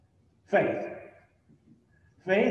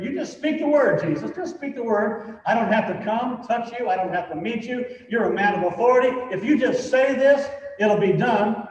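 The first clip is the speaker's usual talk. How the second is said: higher, earnest pleading voice of the centurion; voicing the centurion; 4 semitones higher than usual. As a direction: push it up high, urging Jesus to just say the word. Centurion's words voiced in sermon.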